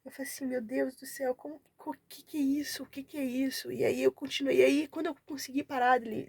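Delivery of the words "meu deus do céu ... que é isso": retold overwhelmed shock. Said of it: "comecei a chorar".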